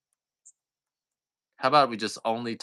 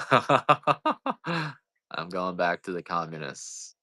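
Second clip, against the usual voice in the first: slow, drawn out through a laugh; much slower than usual. Real, not acted. Joking to viewers about leaving, laughing slowly. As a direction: laugh your way through "communists".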